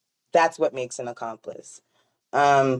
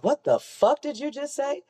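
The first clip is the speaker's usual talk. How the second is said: mock incredulous; 10 semitones higher than usual. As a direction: imitate an affronted comeback, pitched way up. Retold driver's outraged comeback.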